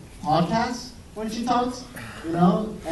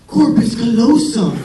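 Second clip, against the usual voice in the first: "corpus callosum" said slowly and louder, like sweet talk; mock seductive; 4 semitones higher, 7 dB louder, slower than usual. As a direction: purr "corpus callosum" as if it were dirty talk. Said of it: "So I'm like".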